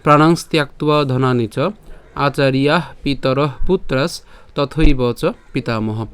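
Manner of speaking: slow, clear chant of the shloka; slow verse recitation. Shown as a demonstration. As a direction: recite each syllable carefully for learners. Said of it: "আমি আবার বলি". (ধীরে স্পষ্ট শ্লোক পাঠ)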